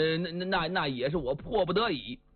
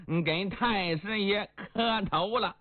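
humble kowtow. Acted. Liang kowtowing to his elder.

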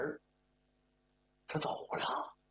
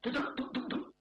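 rapid high thudding footsteps; imitated footsteps; 7 semitones higher than usual. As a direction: patter out footsteps coming up from below. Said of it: "有脚步声". (模仿噔噔噔的脚步声)

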